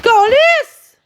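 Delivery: juron crié à pleine voix; hurle-le, à bout; cri de rage. Real, not acted. Explose de colère contre le chat. (cri de colère en direct)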